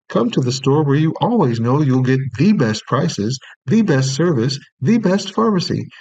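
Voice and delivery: pharmacy ad with "best" hit hard; stress on best. Shown as a demonstration. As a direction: lean on every "best", rising to the last. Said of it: "emphasizing these words that are underlined".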